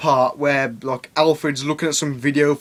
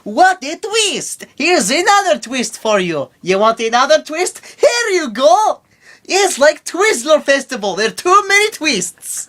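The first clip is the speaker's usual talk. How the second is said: much higher, slow hammy announcer; mock showman voice; 12 semitones higher, 5 dB louder than usual. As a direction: announce each twist like a showman. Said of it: "like M. Night Shyamalan took over".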